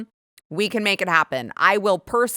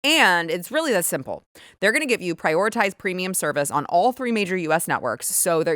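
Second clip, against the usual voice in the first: brisk, upbeat sponsor read; host endorsement, key words punched; 2 semitones lower than usual. Acted. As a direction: pitch the product to loyal listeners.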